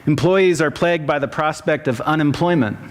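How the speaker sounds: sermon reading. Acted. Pastor preaching King's sermon to the congregation, measured pulpit delivery. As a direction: deliver it as a written sermon, phrase by phrase.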